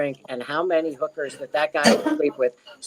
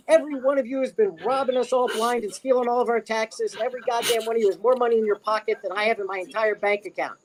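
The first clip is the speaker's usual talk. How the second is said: Robin Williams; 5 semitones higher than usual. Retold or imitated. Guest retells comic haranguing charity bidders, mock yelling. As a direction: imitate a comic berating a rich crowd. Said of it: "literally started yelling at them all".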